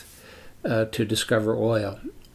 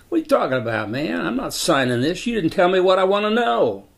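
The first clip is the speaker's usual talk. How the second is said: angry refusal; 7 semitones higher than usual. Retold or imitated. Landowner refusing to sign the work order, angry. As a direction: refuse him flat, getting heated.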